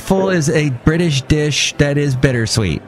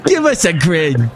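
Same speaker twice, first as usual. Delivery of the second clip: mock British accent; 2 semitones higher than usual. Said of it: "I would do a British accent right now".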